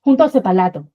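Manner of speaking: mock imitation with an L in "separado". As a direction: swap the R of "separado" for an L. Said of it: "That's how we imitate Chinese speakers".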